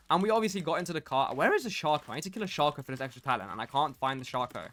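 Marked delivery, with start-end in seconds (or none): 2.1-4.7 muttered gaming aside. Real, not acted.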